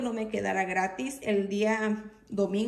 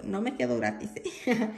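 laughing self-correction. Real, not acted. Laughs correcting own mistake.

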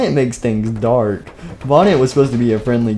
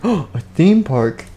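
high, slow amazed question; 5 semitones higher, much slower than usual. Acted. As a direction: marvel at it slowly. Child amazed.

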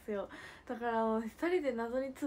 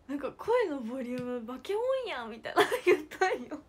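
higher and louder, laughing through the words; laughing while retelling; 3 semitones higher, 9 dB louder than usual. Real, not acted. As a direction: laugh as you retell the shocked line. Retelling her shocked remark. (笑いながら高く大きな声で)

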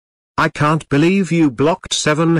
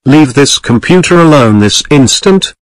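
angry; 9 dB louder than usual. Acted. Angry escalating scolding of computer.

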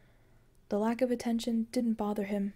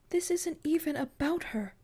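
angry edge; 8 semitones higher than usual. A narrator's reading. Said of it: "an angry edge to her voice".

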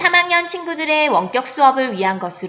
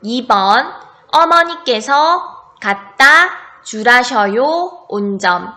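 dictating. Shown as a demonstration. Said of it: "잘 썼는지 처음부터 확인해 봅시다".

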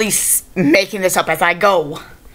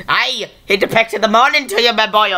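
a lightly voiced Irish accent, close to his own voice; a mild, half-hearted Irish brogue. Vlogger showing off his good Irish accent, lightly done. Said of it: "I can do a good Irish accent".

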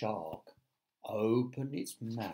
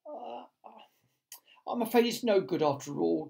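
murmured; 8 semitones higher than usual. A narrator's reading. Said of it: "James murmured".

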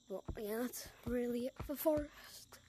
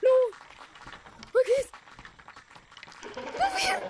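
calling out; 13 semitones higher, 11 dB louder than usual. Real, not acted. Calling out to a teammate.

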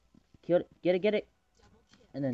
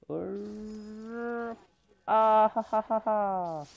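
laughing; 6 semitones higher, much slower than usual. Real, not acted. Laughing at teammate.

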